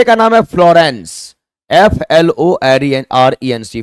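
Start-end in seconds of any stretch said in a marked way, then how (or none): 1.7-3.8 spelled out. Shown as a demonstration. Teacher spells out Florence.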